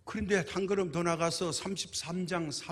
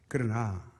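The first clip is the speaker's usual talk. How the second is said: usual speaking voice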